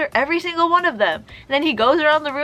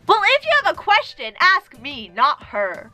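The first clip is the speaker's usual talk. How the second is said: higher-pitched mock scolding; mild mock yell, pitched up at the start; retold yelling; 4 semitones higher than usual. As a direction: imitate a teacher telling off a student. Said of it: "he keeps yelling at me".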